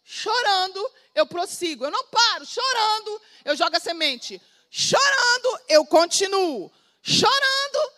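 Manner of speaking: preaching that climbs in pitch and volume line by line; building preaching. Acted. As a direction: build from urgent to near shouting. Building preaching on sowing in tears.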